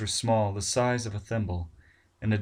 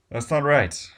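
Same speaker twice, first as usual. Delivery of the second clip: alarmed; 6 semitones higher, 6 dB louder, slower than usual. Acted. Barnes alarmed.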